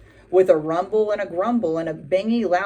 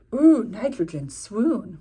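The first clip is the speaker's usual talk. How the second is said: mock swoon; 2 semitones higher, slower than usual. Reader teases Pluto's brag.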